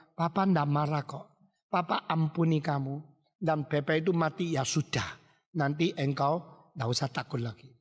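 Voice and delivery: calm, settled reassurance; gently absolve a frightened child; forgiving father. Acted.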